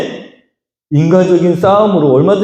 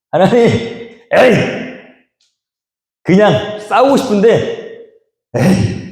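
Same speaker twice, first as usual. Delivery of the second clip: drawn-out exasperated plea, higher; slow frustrated complaint; 6 semitones higher, slower than usual. Acted. Isaac grumbling to God, slow and exasperated. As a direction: groan it out slowly to God. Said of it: "하고 그냥 거기다 이름만 붙이고".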